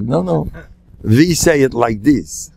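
lightly imitated Yiddish accent; Rav Hutner. Rabbi showing how we say it, imitated Yiddish accent. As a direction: put on a deliberate Yiddish accent. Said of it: "rub in the accent".

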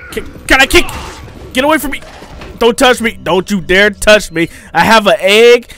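high, loud frantic protests; real alarmed yelps; panicked pleading. Real, not acted. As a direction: fend it off in a panic. Enemy grabbing player, fighting off.

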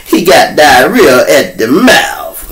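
slow, drawn-out quote in put-on accent; a rapper's line. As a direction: lightly mimic his accent, stretching it. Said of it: "I guess that's his line".

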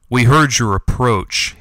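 slow, hissing threat from the dark; hissed. Acted. Hidden cat to the refugees, a slow menacing hiss. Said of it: "hissed another voice from the shadows".

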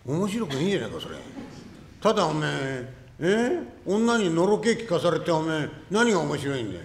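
loud, exasperated complaint; irritated shout. Acted. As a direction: yell at the storyteller, fed up. 聞き手の男が苛立つ. (聞き手がじれて怒鳴る)

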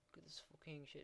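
whispered gloat. Real, not acted. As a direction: hiss it under your breath. Gloating at enemies.

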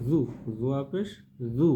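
'জু' with tongue tip at upper teeth; soft zwa sound. Shown as a demonstration. Teacher repeats zwa pesh, soft dental z in 'জু'. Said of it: "জিহ্বার আগা সামনের উপরে দাঁতের আগার".

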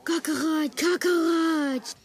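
bad Russian accent; hammy mock Russian accent. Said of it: "worst Russian accent".

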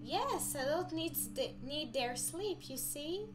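a parent explaining bedtime rules; mom voice. Acted. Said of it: "I'm trying to do voices again".

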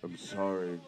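loud, halting, near-crying apology; tearful apology. Acted. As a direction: come down from a fit, close to tears. Apologises after the screaming fit.

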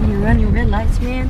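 loud call-out at a reckless driver; yelling at a driver. Real, not acted. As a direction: shout it across the road at the car. Yelling at a driver who ran a light.

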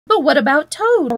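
worried appeal for a friend; anxious. A narrator's reading. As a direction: ask it fretfully, lifting on the name.

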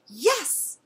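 high, loud, eager yes; barked aloud. A narrator's reading. Thirsty dog answering the lady, barking aloud. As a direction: pop it out like an eager dog's bark. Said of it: "barked aloud".

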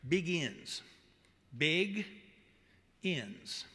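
Begins said as Big ... ends with a pause; split into big ends. Shown as a demonstration. Preacher splitting the word for the congregation, Big then ends. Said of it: "Did you hear that last word?".

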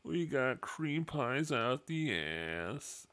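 goofy character voice; silly put-on voice. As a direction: ham up a dopey confession. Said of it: "That voice hurts".

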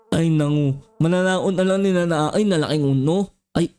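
lightly voiced low bee grumbling; a cranky giant bee, slurring its words; grumpy bee. Giant bee grumbling at the little kid, low voice.

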